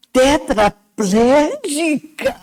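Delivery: slow strained word, barely able to speak; struggling to speak. Retold or imitated. Paralysed patient asking the doctor, slow and strained. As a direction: force the word out while paralysed. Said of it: "Eu só consegui fazer assim".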